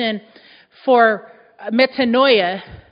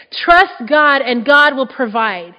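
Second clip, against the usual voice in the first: slow, weighty declaration; preacher stating the scripture's promise, slowly; slow emphasis; 5 dB louder, slower than usual. Real, not acted. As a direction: lay each word down deliberately.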